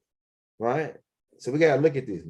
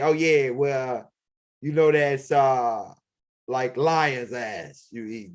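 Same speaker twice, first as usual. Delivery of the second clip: sly host's answer; much slower than usual. Retold or imitated. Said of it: "They're like".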